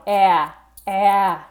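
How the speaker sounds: wide-mouthed, jaw dropped "ah"; open ah. Shown as a demonstration. Teacher shows the learner the open jaw. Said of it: "I'm also dropping my jaw".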